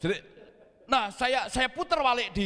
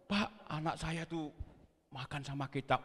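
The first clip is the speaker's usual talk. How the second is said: imitated hardship tale; 2 semitones lower, 7 dB quieter than usual. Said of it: "malah menceritakan yang susah-susah".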